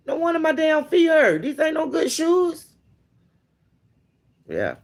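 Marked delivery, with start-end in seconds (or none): 0.1-2.7 exasperated outburst. Retold or imitated. Discovering cheap shoes.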